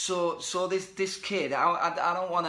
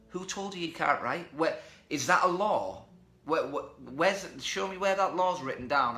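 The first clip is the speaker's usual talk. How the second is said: indignant challenge. Retold or imitated. Retells challenging the kid's excuse.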